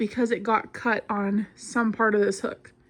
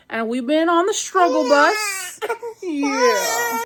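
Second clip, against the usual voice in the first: teary; 7 semitones higher, slower than usual. Real, not acted. Mom crying over baby.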